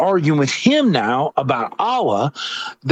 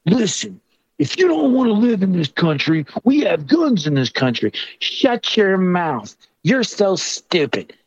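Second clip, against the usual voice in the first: higher-pitched mock argument; bickering retelling; 4 semitones higher than usual. Comic retelling two people going back and forth, mock bickering. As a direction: act out a squabble in a raised pitch.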